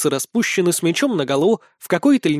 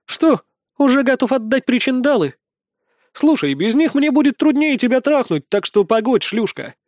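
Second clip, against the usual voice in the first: insolent; 8 semitones higher than usual. A narrator's reading. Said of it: "заявляю нагло".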